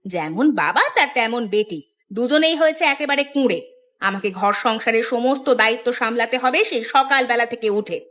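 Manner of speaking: mildly cross nagging; scolding mother. Acted. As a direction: grumble at a lazy child and father. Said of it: "সকালবেলা চিৎকার করতে শুরু করেছো". (মায়ের বিরক্ত বকুনি)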